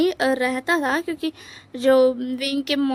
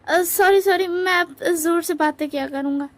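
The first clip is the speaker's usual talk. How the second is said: speaking up; 3 semitones higher than usual. Acted. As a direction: make a mild effort to be heard. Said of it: "क्या तुम ज़ोर से बोल सकते हो".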